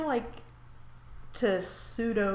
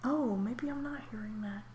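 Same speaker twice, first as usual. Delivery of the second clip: whispering; 7 dB quieter than usual. Real, not acted. Puzzled aside.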